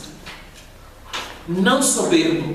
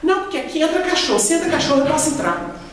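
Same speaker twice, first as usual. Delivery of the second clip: higher, indignant retort; indignant lady; 7 semitones higher than usual. Retold or imitated. A lady at the centre protesting to the preacher, mock indignant. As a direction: insist she has the right like a defiant old lady. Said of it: "Ela falou assim com a gente".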